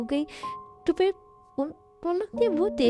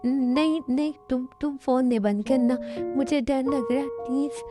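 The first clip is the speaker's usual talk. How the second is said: wife afraid alone, begging her friend on the phone; scared, tearful pleading. Acted. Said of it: "तुम अब रोना बंद करो।". (डरी हुई, रोती हुई विनती)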